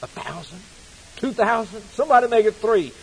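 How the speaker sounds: loud, high, fast bidding call; auctioneer crying out. Retold or imitated. Preacher reciting a poem, the auctioneer crying out the rising bids. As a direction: cry the bids out rising to gone. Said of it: "cried he".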